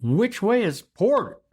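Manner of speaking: small, high-pitched, slow question; timid question from a sheepish greenhorn. A narrator's reading. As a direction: ask it sheepishly, voice lifted high. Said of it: "rather sheepishly I asked".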